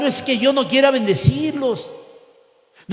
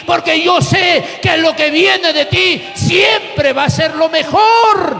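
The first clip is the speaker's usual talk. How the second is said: loud, higher fervent promise; fervent prayer; 4 semitones higher, 3 dB louder than usual. Retold or imitated. Preacher voicing an obedient believer praying, loud fervent vow. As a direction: pour out the vow with full force.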